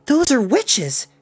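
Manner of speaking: high, slow astonished cry; stunned. A narrator's reading. Henry Hank stunned at the witches, high and slow. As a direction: gasp it out amazed.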